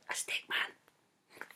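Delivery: soft, slow whispered aside. Acted. Dad whispering to his child during the story, slow and hushed. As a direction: breathe it out slowly like a secret.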